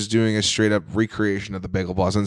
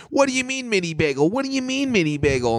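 mock freak-out; 12 semitones higher than usual. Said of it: "he starts freaking out again".

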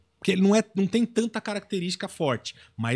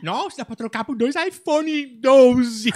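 imitating Igor; 4 semitones higher, slower than usual. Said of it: "como é que ele falaria isso".

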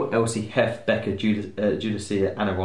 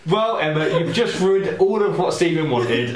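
laughing; 8 semitones higher, 5 dB louder, slower than usual. Real, not acted.

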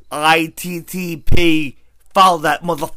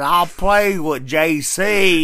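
mock Boss Hog; much slower than usual. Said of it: "That's how he talks".

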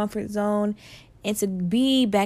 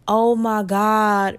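wowed reaction; much slower than usual. Shown as a demonstration. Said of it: "I want after every episode to have that".

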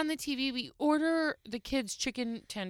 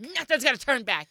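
louder, grumbling imitation; mock grumpy; 2 semitones higher, 7 dB louder than usual. Wife retelling husband's reaction to the room, mock grumpy. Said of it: "gets mad and grumpy".

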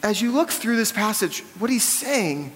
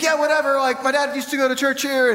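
dismissive brush-off; 5 semitones higher than usual. Retold or imitated. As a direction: toss it off like you couldn't care less. Pastor imitates the dismissive guy.

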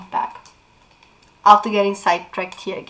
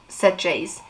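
lively read-aloud of a novel; expressive book reading; story narration; 3 dB louder than usual. Acted. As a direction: read the scene like an audiobook. Reads novel passage aloud.

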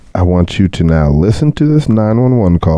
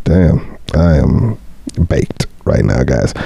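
stoner. Real, not acted. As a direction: drift through it stoned. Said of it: "I'm fucking baked at this point".

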